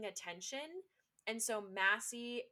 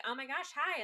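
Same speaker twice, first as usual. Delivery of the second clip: put-on popular girl voice; 6 semitones higher than usual. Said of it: "reads all the lines like the popular girl".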